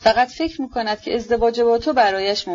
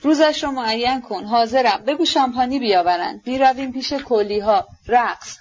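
mild, higher-pitched retold exclamation; understated cry of reckless excitement; 3 semitones higher than usual. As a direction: lightly mimic her excited orders without shouting. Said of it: "و فریاد زد".

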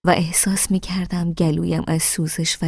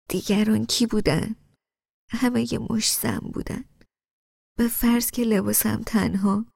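higher-pitched, upset protest; 4 semitones higher than usual. A narrator's reading. Woman defends who saw her dress, upset. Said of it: "با ناراحتی گفتم".

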